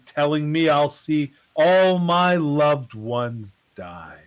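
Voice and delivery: slow, drawn-out dramatic reading. Acted. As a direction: recite it like spoken word poetry, pausing for effect. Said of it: "in your best dramatic voice".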